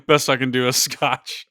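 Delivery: gruff bargaining shopkeeper voice; a lightly voiced pawn shop haggler; Pawn Stars dealer. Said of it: "I must sound like a Pawn Star right now".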